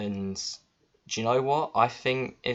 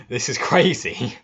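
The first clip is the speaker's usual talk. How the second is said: laughing disbelief; 6 semitones higher, 7 dB louder than usual. Real, not acted.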